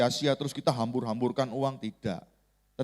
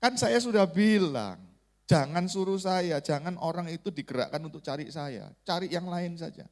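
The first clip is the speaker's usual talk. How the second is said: mock-aggrieved protest, building to a higher finish; retold sulk; 5 semitones higher than usual. Preacher re-enacts sulking at God over patients dying, mock-aggrieved. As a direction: complain like someone sulking, pitch climbing late. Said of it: "Langsung saya ngambek".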